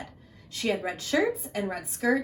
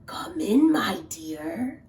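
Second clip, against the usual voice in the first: deep scratchy voice; slower than usual. Acted. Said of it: "deep, scratchy voice".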